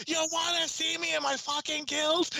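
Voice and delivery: high-pitched mock Irish challenge; hammed-up, high Irish accent; heavy Irish accent. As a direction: imitate an Irishman spoiling for a fight. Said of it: "the heaviest Irish accent you've ever seen".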